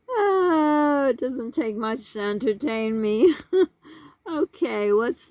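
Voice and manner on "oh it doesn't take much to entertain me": amused words between laughs; laughing at herself. Real, not acted. Laughing at her own silliness to viewer. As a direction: chuckle through it.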